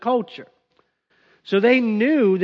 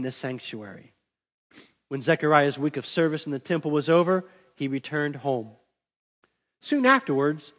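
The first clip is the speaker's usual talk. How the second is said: measured, even Bible reading voice; scripture reading; 2 semitones lower than usual. Acted. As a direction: read the passage steadily to the congregation. Reads the scripture passage.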